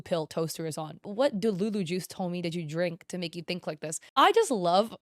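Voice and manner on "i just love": sarcastic gushing, leaning on the words; heavily emphasized fake delight. Real, not acted. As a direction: say it with loud mock enthusiasm. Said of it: "I'm saying this sarcastically".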